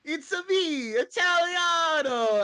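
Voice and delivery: put-on stereotypical Italian accent. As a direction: ham up a cartoon Italian accent. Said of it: "stereotypical accent".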